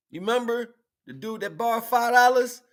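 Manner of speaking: shouted, very high, laughing story; laughing retelling. Retold or imitated. Retelling a borrowed-five-dollars story to viewers, laughing loudly. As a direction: tell it loud and high, cracking up.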